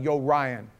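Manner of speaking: put-on Brooklyn buddy's New York accent; lightly done New York accent. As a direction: imitate a friend's heavy New York talk. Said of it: "he would have the worst New York accent".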